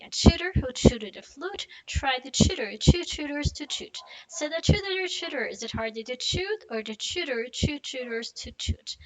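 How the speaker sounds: slow and careful, every T clear; slow tongue twister. Shown as a demonstration. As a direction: go slow, sound by sound. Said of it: "let's do it slowly".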